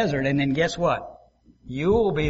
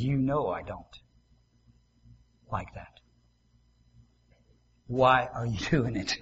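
inner voice; 5 semitones lower, 7 dB quieter than usual. Acted. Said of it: "a voice in here that says".

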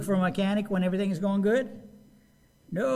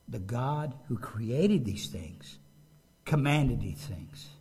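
slow solemn; 6 semitones lower, slower than usual. Real, not acted. Solemn emphasis after demo.

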